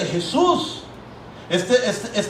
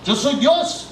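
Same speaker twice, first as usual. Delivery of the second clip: solemn declaration; 5 semitones higher, much slower than usual. Acted. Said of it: "Jesús está diciendo".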